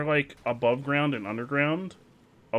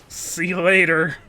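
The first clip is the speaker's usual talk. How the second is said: loud, slow taunting goodbye; relieved; 7 semitones higher, 10 dB louder than usual. Real, not acted. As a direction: shout a slow goodbye while fleeing. Escaping the crab.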